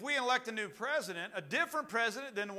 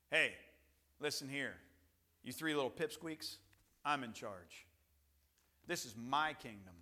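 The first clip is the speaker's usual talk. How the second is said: menacing king; 2 semitones lower than usual. Acted. Paraphrases the king threatening the three.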